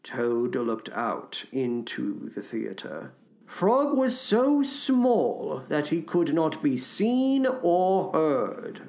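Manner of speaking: soft, measured storybook reading; quiet storyteller; story narration. A narrator's reading. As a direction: read a bedtime tale gently. Reads a children's story aloud.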